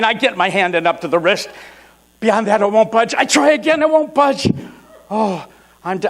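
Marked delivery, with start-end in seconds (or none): 2.2-5.5 mounting struggle, pitch climbing steeply; acted tugging effort, getting more worked up; straining frustration. Man fighting a too-tight T-shirt, straining and frustrated.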